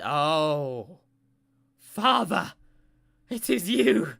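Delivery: high, loud, gushing father's cry; a loud, high-pitched overjoyed panda dad; overjoyed reunion cry. Acted. Panda finds long-lost son.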